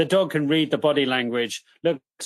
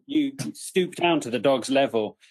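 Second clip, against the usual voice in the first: ordinary talk, nothing marked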